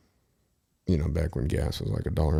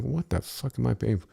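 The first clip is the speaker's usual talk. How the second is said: higher, mock-angry outburst; pissed; 6 semitones higher than usual. Retelling his reaction to bottle prices, mock-angry. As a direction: vent at the price, half-hammed. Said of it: "I was so pissed".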